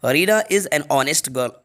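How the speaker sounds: very slow, word by word; slow dictation. Shown as a demonstration. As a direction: read the answer slowly. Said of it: "right answer N होगा". (बहुत धीमे, शब्द-शब्द)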